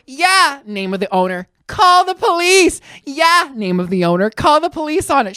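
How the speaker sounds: loud, high mocking echo; taunting. Miss Mama to the owner, taunting the old man. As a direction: egg him on loudly, acted out.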